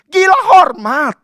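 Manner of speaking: loud, high exclamation; declared at full volume; loud cry. Real, not acted. Preacher denouncing honour-seekers.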